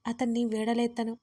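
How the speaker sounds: ordinary delivery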